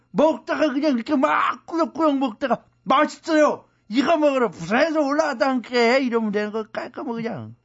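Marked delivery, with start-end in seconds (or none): 2.8-6.0 Jeolla dialect. Retold or imitated. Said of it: "왜 전라도 사투리 쓰냐?".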